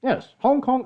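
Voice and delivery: high and loud, a burst of volume; sudden loud mock exclamation; loud Hong Kong voice. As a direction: belt it out like a Hong Konger. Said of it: "I thought that was loud".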